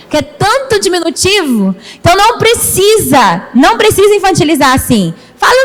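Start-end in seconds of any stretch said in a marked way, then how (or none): none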